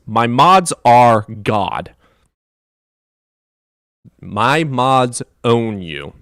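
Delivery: slow, heavy, deliberate words laying down the law; slow stern decree. Real, not acted. Streamer laying down the law to rude chatter, slow and stern. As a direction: spell it out slowly like a ruler's decree. Lecturing a chatter about mods.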